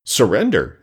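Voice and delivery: a touch of disbelief in the echoed word; astounded echo. Acted. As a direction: repeat it as if you cannot believe your ears. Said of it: "echoed the man, astounded".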